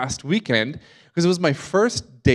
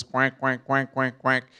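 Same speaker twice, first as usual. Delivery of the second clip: duck quack; 4 dB quieter, slower than usual. Retold or imitated. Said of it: "ringtone is a duck quacking".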